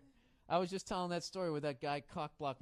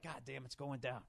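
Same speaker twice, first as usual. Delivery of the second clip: much softer, lower muttered aside; side of my mouth; 5 semitones lower, 10 dB quieter than usual. Retold or imitated. Bar guy envying the lucky friend, mumbled aside. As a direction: murmur it out of the side of your mouth to a buddy. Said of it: "Side of my mouth".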